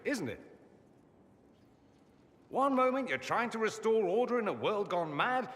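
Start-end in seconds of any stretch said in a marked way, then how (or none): 2.5-5.5 mock dramatic storytelling. Mocking retelling of adventure.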